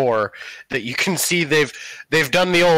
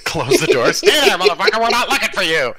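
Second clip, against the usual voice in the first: mock snarl; 3 semitones higher, 4 dB louder, faster than usual. GM voices gruff dismissal.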